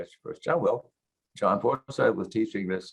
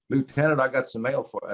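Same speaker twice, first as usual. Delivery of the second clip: put-on Texas accent; 4 semitones higher than usual. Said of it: "I'll use my Texas accent".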